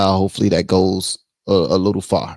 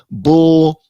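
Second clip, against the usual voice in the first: loud high dismissive bark; scoffing; 7 semitones higher, 6 dB louder than usual. Real, not acted. Rejecting the pardon excuse to viewers, loud scoff. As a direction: spit the word out in disgust.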